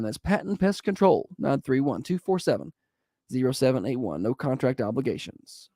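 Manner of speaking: upbeat sponsor read. Acted. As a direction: read it like a radio spot.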